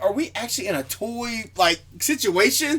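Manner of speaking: comic disbelief at the scale; retold incredulity. Retelling own confused reaction.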